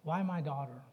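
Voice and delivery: slow, hushed pleading; father praying over his sick daughter, softly and slowly; grieving prayer. Retold or imitated. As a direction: plead softly with God in grief. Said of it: "and I said".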